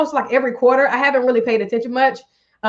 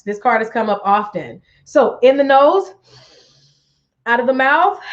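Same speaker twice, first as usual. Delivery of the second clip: guided breathing. Acted. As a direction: guide them through each breath. Leads breathing exercise.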